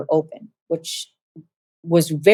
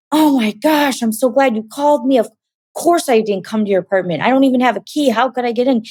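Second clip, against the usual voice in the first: high, worked-up retold outburst; frantic brother; 5 semitones higher than usual. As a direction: act out a frantic phone call, pitched up. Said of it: "He sounded frantic and crazy".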